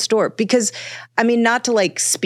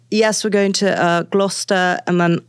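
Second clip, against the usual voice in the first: put-on British accent. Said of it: "code switch into a full British accent".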